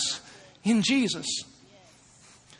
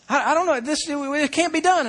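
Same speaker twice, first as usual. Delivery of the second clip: put-on higher, halting child voice; defeated kid; 5 semitones higher than usual. Young son admitting defeat to his father, halting. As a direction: stammer like a boy giving up.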